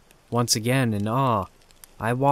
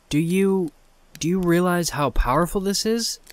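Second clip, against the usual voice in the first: hesitantly; 6 semitones higher than usual. A narrator's reading. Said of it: "I asked hesitantly".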